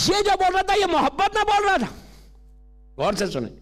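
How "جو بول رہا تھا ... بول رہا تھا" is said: high sermon projection; emphatic preacher's explanation; preaching. Acted. Preacher explains the follower's love.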